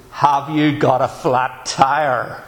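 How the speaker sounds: slow, deliberate helpful stranger; a lightly voiced passer-by, slow and concerned; passer-by's question. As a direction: lean out the car window and ask kindly. Passer-by asks from car.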